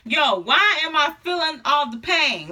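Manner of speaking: mild retold panic, pitch lifted; a touch of mock alarm; freaking out. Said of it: "I start freaking out".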